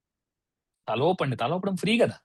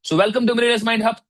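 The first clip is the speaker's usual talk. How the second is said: slow, loud, higher welcome; big slow showman welcome; announcer welcome; 6 semitones higher, 4 dB louder, much slower than usual. Shown as a demonstration. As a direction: announce it like a grand opening. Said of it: "announcing the program".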